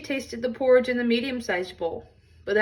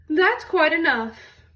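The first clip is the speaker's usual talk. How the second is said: higher, louder and slow; prim Mama Bear; 6 semitones higher, 5 dB louder, slower than usual. Acted. Mama Bear to her family, ending the fuss, high and slow. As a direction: draw it out like a strict mother.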